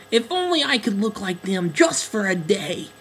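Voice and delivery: lightly high wistful duckling; admiring, wistful. Acted. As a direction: dream of being beautiful. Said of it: "said the duckling admiringly".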